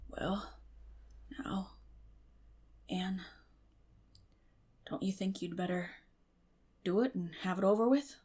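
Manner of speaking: soft, coaxing whisper. A narrator's reading. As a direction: urge her gently, hushed. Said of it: "he whispered".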